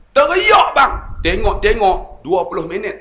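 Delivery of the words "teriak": much higher and louder, a hammed-up cry; mock wail. Preacher acting out his weeping during wudu, loud mock wail. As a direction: wail the word high and loud.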